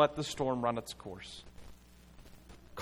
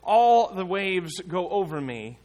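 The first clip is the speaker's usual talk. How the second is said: louder, higher cry of fear; 4 semitones higher, 7 dB louder than usual. Acted. Christian crying out to Hopeful from the river. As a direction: call out as if sinking. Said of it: "Christian cries out".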